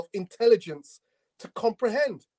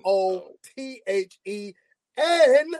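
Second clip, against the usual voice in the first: spelled-out emphatic no; 3 semitones higher, slower than usual. Real, not acted. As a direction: spell it out then shout the no. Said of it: "shall I spell it out".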